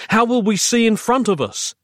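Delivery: high, mildly desperate voice; despairing question. A narrator's reading. Narrator to Roz about the darkness, despairing. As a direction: ask as if hope is going.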